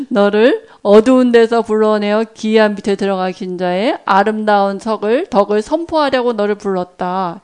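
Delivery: measured recitation of a verse; scripture recitation. Acted. Preacher quoting 1 Peter to the congregation, reverent recitation.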